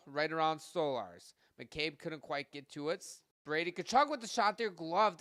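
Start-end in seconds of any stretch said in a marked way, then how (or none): 3.4-5.2 higher, louder quick call of the shot and save; excited call. Real, not acted. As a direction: snap into the save with energy.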